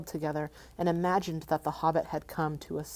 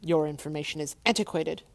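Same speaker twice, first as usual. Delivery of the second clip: snapping dragon. Acted. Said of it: "he snapped".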